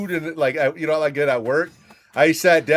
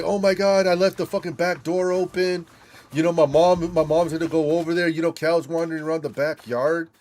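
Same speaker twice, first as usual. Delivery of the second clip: retold panic; 5 semitones higher than usual. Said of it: "I'm freaking out".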